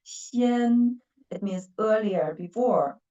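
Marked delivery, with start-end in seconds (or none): 0.0-1.0 "Xian" as a single unbroken syllable, held level; one syllable. Shown as a demonstration. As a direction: keep "Xian" to one beat. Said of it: "that is one syllable".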